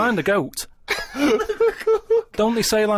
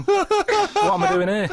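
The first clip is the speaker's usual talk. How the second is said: bewildered goat voice. Pretend. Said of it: "the goat going".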